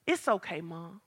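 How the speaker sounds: acted soft reassurance, dropping away low; calm mom down, fading on the last word; gentle soothing. Daughter calming mother, repeated.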